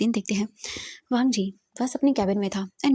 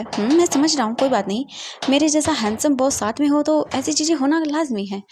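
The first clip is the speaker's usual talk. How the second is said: smug bragging; 6 semitones higher, 5 dB louder than usual. Acted. Boss brags about being handsome.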